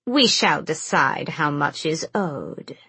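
slow raspy hag voice; rasping old crone. Acted. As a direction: croak the threat like an ancient witch. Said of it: "the Yellowlegs crone rasped".

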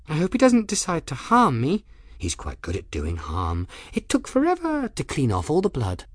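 lightly voiced girl, high then dropping to an aside; nervous odd girl. Girl held by the wrist fears harm, nervous chatter.

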